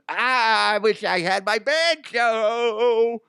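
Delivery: high, loud, slow mocking drawl-free yokel voice; mock a hillbilly dreaming of his banjo; mock hick.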